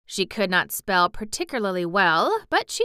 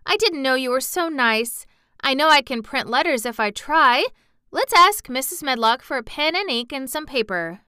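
excited; 6 semitones higher, 5 dB louder than usual. A narrator's reading.

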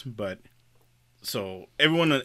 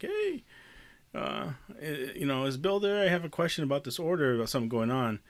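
higher, softer polite phone voice; woman caller; 4 semitones higher, 4 dB quieter than usual. Retold or imitated. Coworker asking the installer for Bill, lightly voiced. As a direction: lightly imitate a tentative office caller.

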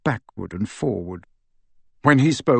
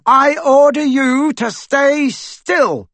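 much louder, higher, slow roaring order; bellowed command; 14 semitones higher, 6 dB louder, slower than usual. Acted. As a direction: bellow over the screaming to pin him down. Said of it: "Harry bellowed louder than both".

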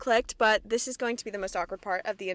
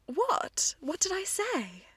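whisper; 8 semitones higher, 4 dB quieter, much slower than usual. Real, not acted. Trying to recall the title.

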